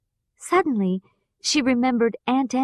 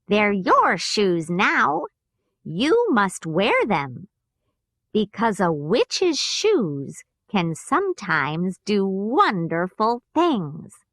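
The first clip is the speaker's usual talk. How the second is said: slow, lightly voiced gentle witch; a good witch explaining kindly; mild storybook witch, slow and gentle; slower than usual. Good witch speaks to Dorothy.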